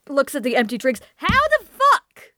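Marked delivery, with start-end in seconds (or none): 1.1-2.3 high, slow, shocked; stunned disbelief. Retold or imitated. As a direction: drag out the disbelief. Drunk friend stunned.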